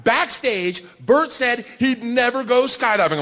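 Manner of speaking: lightly voiced show host; host addressing crowd. Host reveals guest's secret to crowd, lightly imitated announcement. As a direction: announce it to a full studio. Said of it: "she says to the crowd".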